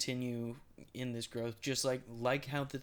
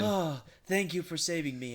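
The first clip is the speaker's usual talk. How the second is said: higher, louder, a touch of Palpatine's voice; mild Palpatine voice; 6 semitones higher, 6 dB louder than usual. Retold or imitated. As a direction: lightly play Palpatine being grateful. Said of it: "he sounds like".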